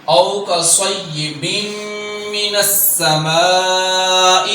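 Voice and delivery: slow drawn-out tajweed chant; slow Quranic recitation. Shown as a demonstration. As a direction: recite each letter long and measured. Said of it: "سین میں سیٹی پیدا کرنی ہے".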